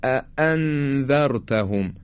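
"اَأَنذَرْتَهُمْ" with two separate glottal stops; correct hamza articulation. Shown as a demonstration. Quran teacher models اَأَنذَرْتَهُمْ, two distinct hamzas. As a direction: give each hamza in "اَأَنذَرْتَهُمْ" its own firm attack. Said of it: "این تیزی به خاطر اینکه خیلی جدا و سنگین".

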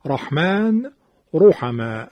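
رحمن، رحمه with a thick, full ر; heavy R. Shown as a demonstration. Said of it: "رو، تفخیم".

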